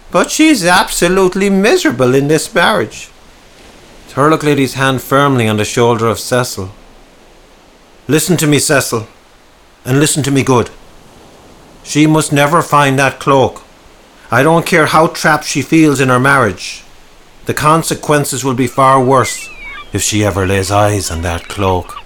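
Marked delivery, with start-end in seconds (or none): 0.1-3.1 anguished and high-pitched; distressed protest. Acted. Distressed character argues over unhappy marriage. 8.1-22.0 firm, emphatic warning; mildly raised, insistent warning; stern warning. Acted. Stern warning about the cloak.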